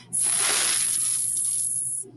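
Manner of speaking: S as a soft hissing unvoiced s; s sound. Shown as a demonstration. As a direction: breathe out a quiet S. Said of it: "we say for sewing".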